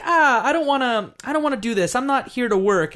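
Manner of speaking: mock whiny refusal. Player character refusing Doolittle's work, acted-out reluctant protest. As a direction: balk at it, mildly acted out.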